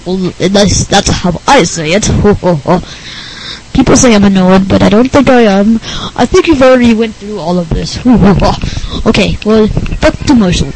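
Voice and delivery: lightly voiced goofy nerd; a hint of an odd nerd voice with silly chuckles. Nerd guest hands back to host, lightly put-on goofy voice.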